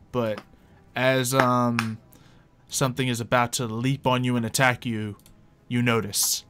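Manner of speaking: ordinary delivery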